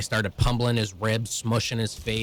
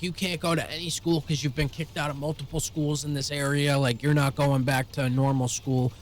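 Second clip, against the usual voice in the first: higher-pitched mock telling-off; imitated scolding principal; 4 semitones higher than usual. Principal telling student he is kicked out, imitated scolding. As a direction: voice an exasperated school principal.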